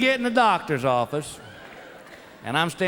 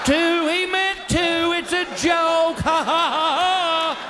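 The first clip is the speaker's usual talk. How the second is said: forced laugh; 9 semitones higher, slower than usual. Retold or imitated. Dad nervously covering doctor's joke.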